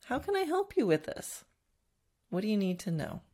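gentle, lifted question to the horse; calm, helpful asking; asked nicely. Shown as a demonstration. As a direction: offer help kindly and openly. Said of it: "say it nicely".

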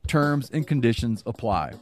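ad read. Acted. Recorded sponsor read.

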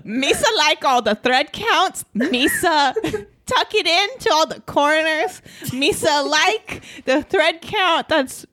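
hammed-up Jar Jar Binks voice; bad Jar Jar voice. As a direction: play a goofy alien giving boring fun facts. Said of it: "Jar Jar Binks boringly giving fun facts".

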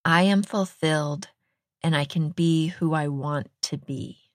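measured, deliberate affirmation; mantra recitation. Retold or imitated. Host shares a meditation mantra with listeners, mantra recitation. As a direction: recite it as a mantra, pausing between phrases. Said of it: "Deepak Chopra's got this great mantra".

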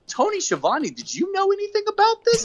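high, sly taunting voice; taunting MJF. Retold or imitated. Podcaster mimics MJF needling Tony in a high, sly voice. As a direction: needle the commentator sweetly. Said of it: "And then M J F goes".

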